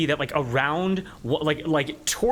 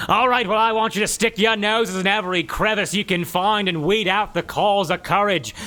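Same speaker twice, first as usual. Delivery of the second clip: troll giving orders; 5 semitones higher, 3 dB louder than usual. Acted. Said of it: "As the troll goes".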